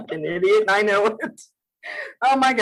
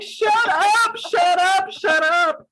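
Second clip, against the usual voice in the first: higher, louder shut up, repeated; telling herself off; 11 semitones higher, 4 dB louder, slower than usual. Retold or imitated. Guest recalling telling herself to stop, loud and high. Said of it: "I'm like".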